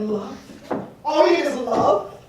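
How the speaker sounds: spoken, unsung, mildly doubting; sceptical echo. Acted. God left behind, echoing the goddess, mildly scoffing. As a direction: question her motto with a touch of scorn.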